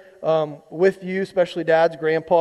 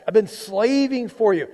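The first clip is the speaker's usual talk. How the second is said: dramatic whine; 4 semitones higher than usual. Acted. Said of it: "It's, it's a bit dramatic".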